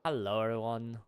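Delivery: lightly put-on British hello; British YouTuber greeting. Streamer getting back into the British mindset, light accent. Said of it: "trying to get back in that mindset".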